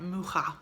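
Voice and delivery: Mucha with a throaty "kh" in the middle; demonstrated pronunciation. Shown as a demonstration. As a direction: say Mucha as "MOO-kha". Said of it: "it's pronounced like".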